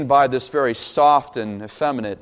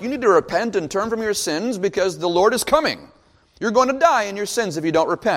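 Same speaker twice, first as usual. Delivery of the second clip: higher-pitched, insistent preacher's warning; urgent warning; 5 semitones higher than usual. Retold or imitated. John warning the crowds to repent, urgent warning. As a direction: press the warning home in a raised pitch. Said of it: "But John's like".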